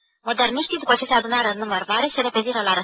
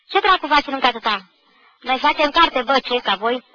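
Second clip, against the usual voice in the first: loud, mocking schoolboy jeer; taunting shout; 3 semitones higher, 5 dB louder than usual. Schoolboy jeering at classmates from the other section, loud. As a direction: bark it at the latecomers.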